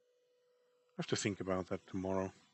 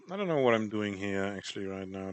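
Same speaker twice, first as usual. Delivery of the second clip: exasperated; 6 dB louder than usual. Real, not acted. Exasperated at own drawing.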